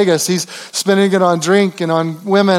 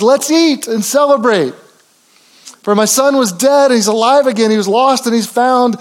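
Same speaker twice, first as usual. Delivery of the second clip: joyful father; 5 semitones higher than usual. Acted. Father rejoices over returned son.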